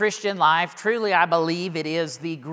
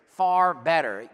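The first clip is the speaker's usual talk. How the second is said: "far" drawn out and slowed; slow and weighty on "far better"; stress on far; 3 semitones lower, slower than usual. Shown as a demonstration. Preacher stressing the Greek meaning of far. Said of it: "three words here".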